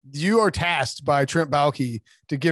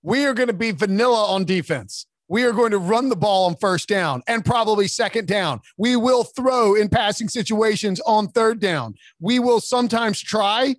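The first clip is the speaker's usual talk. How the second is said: a higher, deadpan coach reading out bland plans; mock honest coach; 5 semitones higher than usual. Pretending to be a blunt coach at his press conference, deadpan mock speech. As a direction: deliver the boring truths with mock gravity. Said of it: "be like".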